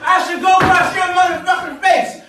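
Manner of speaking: heated yelling back and forth; angry shouting match; shouting argument. Real, not acted. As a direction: yell at him for not looking. Shouting quarrel over spilled paint.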